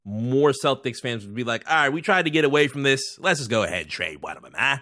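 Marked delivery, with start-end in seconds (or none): 1.7-4.8 bad Boston accent. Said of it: "terrible Boston accent".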